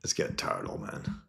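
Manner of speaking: soft whisper, teasing; quiet needling whisper; whispered jab. Retold or imitated. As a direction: say it under your breath to the old man. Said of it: "He goes".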